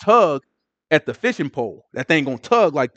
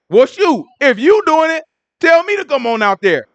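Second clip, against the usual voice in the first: eager Peter; 8 semitones higher than usual. Retold or imitated.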